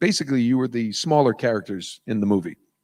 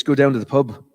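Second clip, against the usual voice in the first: light British accent demo; a touch of UK accent; 3 semitones higher, 4 dB louder than usual. Shown as a demonstration. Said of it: "it's the same way in the U K".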